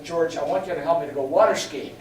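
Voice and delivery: a keen plea with a laugh in it; laughing eager request. Retold or imitated. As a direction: ask eagerly, half laughing. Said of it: "the young guy ... said".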